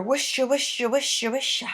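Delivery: a secret hushing murmur of trees; mild voiced tree murmur; whispering trees. A narrator's reading. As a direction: sigh it like leaves in the wind. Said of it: "hearing the trees whisper secretly".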